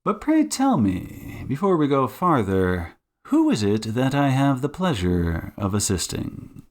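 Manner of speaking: courteous detective, lilting lightly; Sherlock Holmes. Acted. Detective asking his new client's name, lightly voiced courtesy. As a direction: ask with polite, swooping emphasis.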